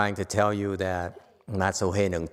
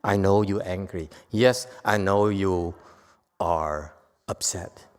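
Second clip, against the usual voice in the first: soothing acknowledgment; 3 semitones lower than usual. Shown as a demonstration. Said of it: "we acknowledge people's emotions".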